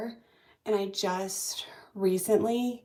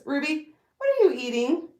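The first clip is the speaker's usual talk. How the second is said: calling out; 7 semitones higher, 7 dB louder than usual. Real, not acted. Calling the puppy.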